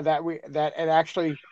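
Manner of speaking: ordinary delivery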